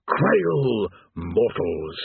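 very slow doom pronouncement; demon threat. Acted. Demon addresses the damned, very slow doom voice. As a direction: intone like an ancient horror.

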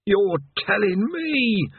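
a tired damned man sighing over his lot; weary chained man. Acted.

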